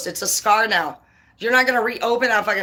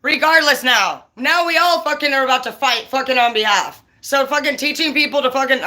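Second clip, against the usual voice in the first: real, heated indignation; fired-up angry rant; pissed off; 3 semitones higher than usual. Real, not acted. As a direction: get worked up and rant. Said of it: "I'm sorry, I'm all pissed".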